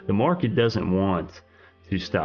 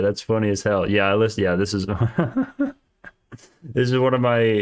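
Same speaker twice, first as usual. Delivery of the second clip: usual speaking voice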